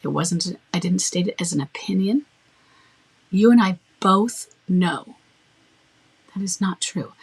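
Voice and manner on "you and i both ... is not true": stated as fact. Shown as a demonstration. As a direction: lay it down as plain fact. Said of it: "I stated it as a fact".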